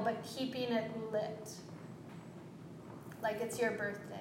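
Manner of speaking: calm, unhurried breathing cues with long pauses; guided breathing. Acted. Yoga teacher leading students through three-part breath, calm and unhurried. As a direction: coach each breath in and out gently.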